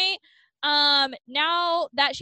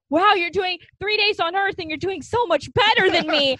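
a touch louder and higher, lightly voiced auntie; mock Aunt Judy; 4 semitones higher, 4 dB louder than usual. Host mimics Aunt Judy teasing the couple, mock auntie voice. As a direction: tease the niece like a nosy old aunt.

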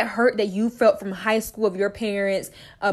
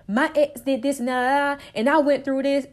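put-on bitter old tone; 6 semitones higher than usual. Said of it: "My tone began to change".

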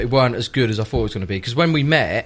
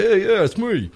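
laughing admission; 6 semitones higher than usual. Retold or imitated. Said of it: "I was like".

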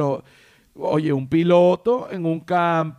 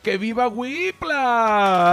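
rousing cheer; 6 semitones higher, 3 dB louder, much slower than usual. Acted. Cheering sponsor.

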